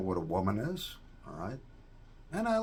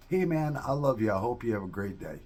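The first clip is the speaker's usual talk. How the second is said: friendly goodbye; 2 semitones higher than usual. Shown as a demonstration. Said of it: "even if it's like".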